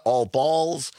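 "All Balls" with an added final s; mispronunciation with S. Shown as a demonstration. Guest shows surname misread with an extra S, "All Balls". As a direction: finish "All Balls" on a plural z sound. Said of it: "they even put an S on it".

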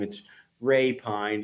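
RAY PINE in two slow, clear words; correct surname pronunciation. Shown as a demonstration. Host explains his funny last name, saying "Ray Pine" slowly and correctly. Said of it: "I have a funny last name".

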